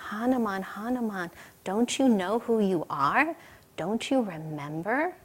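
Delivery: softly coaxing a dejected friend; hushed, earnest appeal; gentle urging. Acted. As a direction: softly remind them who they are. Friend gently rouses the dejected hero.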